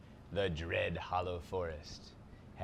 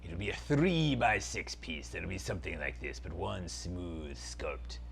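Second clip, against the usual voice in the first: dark lord; 3 semitones lower than usual. Acted. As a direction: savour every word like an evil prince. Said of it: "Zaltar, Prince of Phantasm".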